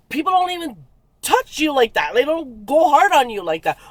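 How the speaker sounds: high, emphatic retold complaint; indignant protest. Woman telling the man off for hurting her, indignant. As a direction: pitch it up and press each point.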